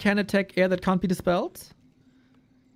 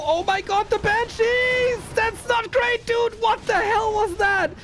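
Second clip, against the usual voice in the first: excited shout; 4 dB louder, slower than usual. Real, not acted. Casting a big fight moment.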